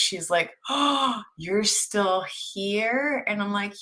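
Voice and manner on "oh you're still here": drawn-out astonished question, rising at the end; startled disbelief. Retold or imitated. Nurse finding a forgotten patient, startled. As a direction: imitate a stunned nurse, stretching the words. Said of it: "like she's seen a ghost".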